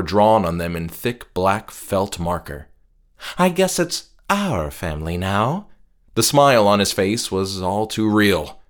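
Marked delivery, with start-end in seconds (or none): 3.4-5.7 creepy cheerful host. Acted. Captor's unsettling remark.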